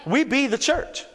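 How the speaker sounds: playful Ebonics rephrasing, "be" for "are". Acted. Preacher jokingly restating his point for the congregation, mock Ebonics. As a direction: put on a light Ebonics voice. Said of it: "That was Ebonics".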